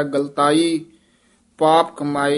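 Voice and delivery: ਗਲਤਾਈ joined, then a pause; ਗਲਤਾਈ as one word. Shown as a demonstration. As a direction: say ਗਲਤਾਈ unbroken, then halt. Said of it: "ਗਲਤਾਈ ਪਾਠ ਸੰਪਰਦਾ ਦੇ ਵਿੱਚ ਇਕੱਠਾ". (ਗਲਤਾਈ ਇਕੱਠਾ)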